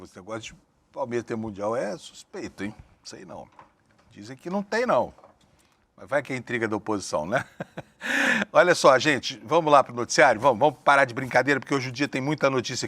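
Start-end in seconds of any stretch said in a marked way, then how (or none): 0.0-7.4 hushed, conspiratorial gossip; speaking low. Acted. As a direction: lean in and gossip quietly. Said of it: "eu vou falar baixinho". (falando baixinho, em tom de fofoca)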